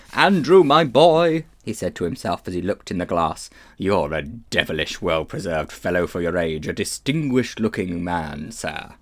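put-on pompous, self-admiring old man; vain old gentleman. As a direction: preen at the mirror, Victorian fop. Uncle Andrew admiring himself in mirror.

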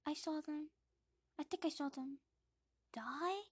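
put-on young Harry. Boy describing his parents' death, hushed and high. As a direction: recall it haltingly. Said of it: "says young Harry".

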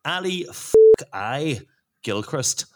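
Scottish accent attempt that comes out Northern Irish; failed Scottish accent. Shown as a demonstration. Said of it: "Oh, that's Northern Ireland".

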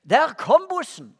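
slow, loud warning call, retold; mother's call. Mother warning son the bus is coming, slow loud call. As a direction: hurry him along from upstairs. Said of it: "hørte jeg litt etter".

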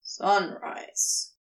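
low, toneless whisper of a word; low and flat, barely voiced; flatly. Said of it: "Crowley says flatly".

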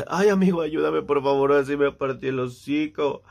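a hint of the injured friend begging for help; mock pleading that slows toward the end; funny-talking hurt friend. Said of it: "de por sí hablaba súper cagado".

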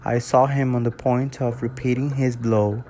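measured English audiobook reading, steady and clear; story narration. Acted. Reading Frankenstein to his followers, calm storytelling narration. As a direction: read the novel aloud like an audiobook.

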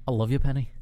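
Scottish accent impression; fan's go at a Scottish TV hero; Desmond from Lost. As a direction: declare love in a Scottish accent. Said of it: "accent work is based on Desmond".

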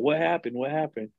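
lightly acted alarm; mock alarm. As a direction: imitate someone rushing in flustered. Retold manager rushing into bathroom.

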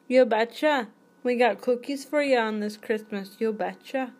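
hammed-up folksy Minnesota accent. Offering Christmas cookies to guests, mock Minnesota accent. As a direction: play a cheery Minnesota host offering treats. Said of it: "I can't say it without sounding like I'm from Minnesota".

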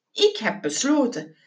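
matter-of-fact repeat with a falling end; decided, closed-off delivery; quoting back firmly. Acted. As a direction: state it as a settled decision. Quoting the hesitant answer back firmly.

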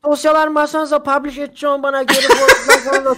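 loud, high comic dialect caricature; hammed-up Black Sea style office talk, breaking into laughter; mock regional accent. Playing a colleague greeting Eren Bey at the office, hammed-up Black Sea accent.

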